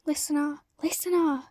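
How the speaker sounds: calling out loud across a room; urgent calling out; shouting a name. Acted. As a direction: shout her name to find her. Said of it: "someone shouted her name".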